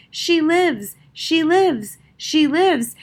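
bright, rising joyful cry; joyful exclamation. A narrator's reading. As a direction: burst out with joy. Joyful realization, repeated exclamation.

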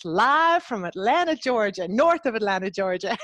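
lightly put-on Southern accent; Atlanta Georgia accent. Host playfully introducing guest from Atlanta, mock Georgia accent. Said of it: "I'm gonna do the accent".

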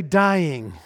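loud falling cry of alarm; abrupt cry. Acted. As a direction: call it out forcefully as one abrupt word. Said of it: "They cry out with three very abrupt words".

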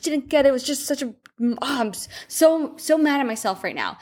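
irritated at himself. Retold or imitated. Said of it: "mumbling over his words and just so mad and so irritated at himself".

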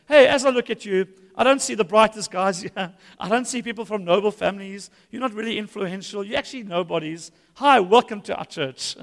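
laughing pastor plays Paul; mock Paul welcome. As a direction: welcome them while insulting them. Imagined Paul welcomes newcomers.

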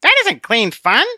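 high, slow, prim little voice; a small scolding voice on his shoulder; tiny Conscience. Acted. Conscience correcting Obstinate, high and prim. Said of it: "Conscience said from Christian's shoulder".

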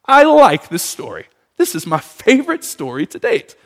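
high, slow, mock-delighted reader. Readers cheering the harsh verse, slow and high. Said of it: "would be like".

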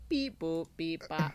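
robot beeps. Acted. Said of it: "I missed Robot Jordan".

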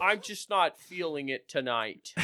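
Canadian-tinged impression that misses its mark; Lorne Michaels. Podcaster trying a Minnesota accent on Veronica's line, off-target impression. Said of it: "No, that's Lorne Michaels".

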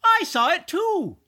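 high-pitched call from the back. A narrator's reading. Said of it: "from the back of the store".

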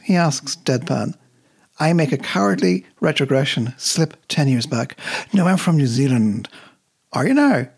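measured poem reading, lightly voicing the bus driver; steady reading voice that fades on the last lines. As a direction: read the poem aloud, easing the quoted lines into life. Reads the poem aloud.

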